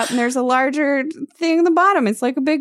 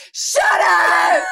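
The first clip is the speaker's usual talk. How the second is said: higher, yelled snap back; angry shout; 7 semitones higher than usual. Acted. Katie yelling back at the rude bus driver, higher angry shout. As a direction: bite back at him like you've been insulted.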